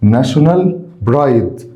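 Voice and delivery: National rising, a pause, then pride falling; split into two words. Shown as a demonstration. Teacher drilling students on the phrase, word by word. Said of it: "كلمة pride معناها فخر".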